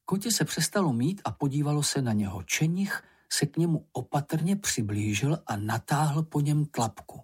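ordinary delivery, nothing marked

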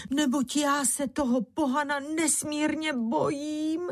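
high pleading wail; frightened wife lamenting, high and pleading. A narrator's reading. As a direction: wail in fear to your husband. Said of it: "jala se naříkati Bára".

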